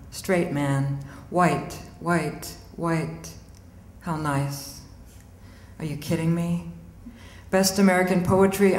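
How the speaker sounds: measured poem delivery with punchy repeats; poetry reading. Acted. Poet reading her angry letter to poetry. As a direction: read the poem like a fierce letter.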